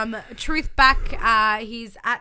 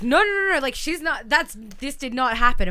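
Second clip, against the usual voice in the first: panicked denial; 3 semitones higher, 5 dB louder than usual. Retold or imitated. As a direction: deny it in a rush. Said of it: "And he's like".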